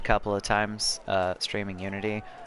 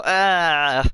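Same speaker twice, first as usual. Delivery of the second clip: death cry; 7 semitones higher, 7 dB louder than usual. Retold or imitated. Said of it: "All I hear is someone just go".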